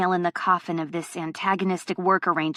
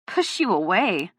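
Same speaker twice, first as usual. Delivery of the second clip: scoffing. Acted. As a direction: scoff at the idea. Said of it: "I scoff".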